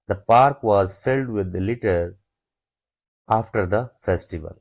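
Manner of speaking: slow, word by word dictation. Shown as a demonstration. Teacher dictating an example sentence slowly to students. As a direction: spell each word out slowly for the class.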